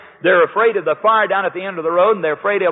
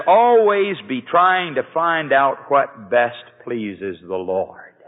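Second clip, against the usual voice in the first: scripture reading; much slower than usual. Shown as a demonstration. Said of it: "I'm quoting it to you now".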